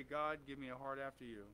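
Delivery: low, softened model prayer; quiet petition to God. Shown as a demonstration.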